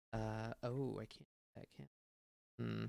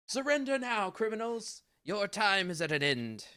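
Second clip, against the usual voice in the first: high, pompous villain shout; 10 semitones higher, 4 dB louder than usual. Acted. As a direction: proclaim it like a pompous hero. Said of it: "just using the pompous, uh, voice".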